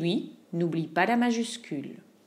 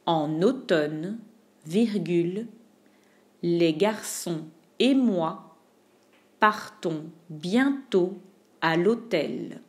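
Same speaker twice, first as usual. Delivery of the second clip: slow dictation; 2 semitones lower, slower than usual. Shown as a demonstration. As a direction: dictate piece by piece slowly. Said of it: "slower chunked repeat".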